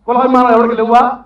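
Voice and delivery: "కులాభిమానం" rising, first asking of the challenge; first loud ask before the repeat. Real, not acted. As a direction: put the question out firmly. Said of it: "repeated louder".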